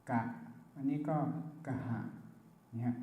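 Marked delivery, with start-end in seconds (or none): 1.7-2.0 กะหะ said with a puff of breath after the k; กะหะ with a strong aspirated burst; aspirated kha. Shown as a demonstration. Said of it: "ถ้าให้มันแข็งขึ้นมาก็เติมอะไรเข้าไปครับ H".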